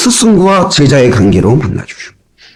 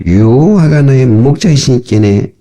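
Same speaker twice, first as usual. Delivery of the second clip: Pyongyang dialect. Retold or imitated. Preacher reads the psalm to his congregation in imitated Pyongyang dialect. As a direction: recite it in mock Pyongyang dialect. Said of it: "요즘 평양도 말도 나오고".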